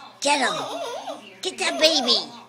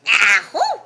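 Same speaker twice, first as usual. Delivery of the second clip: mock sneeze; 7 dB louder than usual. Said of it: "What does Mama say when she sneezes?".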